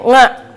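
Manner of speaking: "nga" with an initial ng; ain as nga. Shown as a demonstration. Showing Tegal folk saying ain, "nga" with ng. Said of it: "itu kalau ngomong ain".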